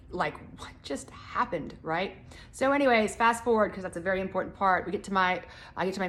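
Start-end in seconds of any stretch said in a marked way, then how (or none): 0.6-1.8 dazed. Retold or imitated. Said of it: "I just was like".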